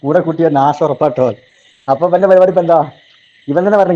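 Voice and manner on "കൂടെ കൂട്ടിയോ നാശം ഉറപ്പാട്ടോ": slow mocking repeat. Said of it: "കേട്ടില്ല?".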